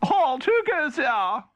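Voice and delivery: high, slow guard's challenge; a guard challenging a visitor; castle guard. Acted. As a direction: call it down from the battlements. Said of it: "a guard looked down ... and said".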